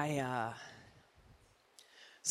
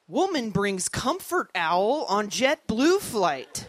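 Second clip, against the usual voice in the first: slow, louder headline announcement; mock headline read; 5 semitones higher, 6 dB louder, slower than usual. Comedian reading out an absurd headline, slow and loud. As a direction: read it like breaking news, slowly. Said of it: "headlines like".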